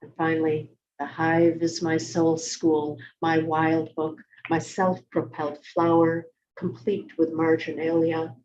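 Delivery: measured poem reading with deliberate pauses; poetry reading. Acted. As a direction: read it as a poem, phrase by phrase. Reads own poem aloud.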